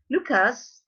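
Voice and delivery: Lucas with a reduced American last vowel; Anglicized Lucas; American accent. Shown as a demonstration. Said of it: "how would an American say".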